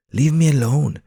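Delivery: high, loud pigeon voice; his pigeon voice. Acted. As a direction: shoo the voices away as a pigeon. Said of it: "he says in his pigeon voice".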